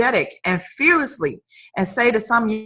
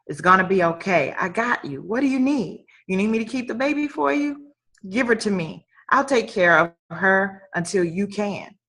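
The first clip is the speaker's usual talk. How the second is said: soft, caring offer of help; quietly supportive retold voice; reassuring friend; 5 dB quieter than usual. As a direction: speak gently, as if comforting a struggling friend.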